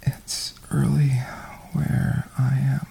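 intimate breathy ASMR whisper. Acted. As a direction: whisper it close to the mic. Holds a whisper throughout.

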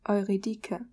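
Eurydike with a hard k; German pronunciation. Shown as a demonstration. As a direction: Eurydike said oy-REE-dee-keh. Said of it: "we would say".

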